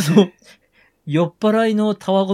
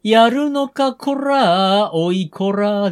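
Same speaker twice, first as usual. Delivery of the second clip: japanese delinquent tough talk; 3 semitones higher, much slower than usual. Retold or imitated. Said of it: "ヤンキー五七五ですよ。".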